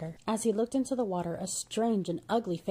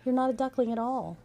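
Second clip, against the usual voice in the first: higher, delighted exclamation; exclaimed; 6 semitones higher, 3 dB louder than usual. A narrator's reading. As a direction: announce it with joyful surprise. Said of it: "and exclaimed".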